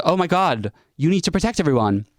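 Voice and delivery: high, scandalised mock scolding; mock outrage. Mimics outraged reply to the doubter.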